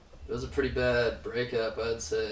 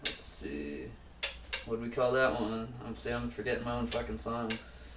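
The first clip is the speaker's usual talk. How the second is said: hungover; 5 dB quieter than usual. Real, not acted. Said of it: "I'm really hungover right now, if you can't tell".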